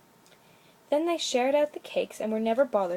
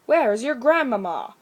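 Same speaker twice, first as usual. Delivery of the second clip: surprised exclamation; 8 dB louder than usual. A narrator's reading. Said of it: "exclaimed the surprised woodcutter".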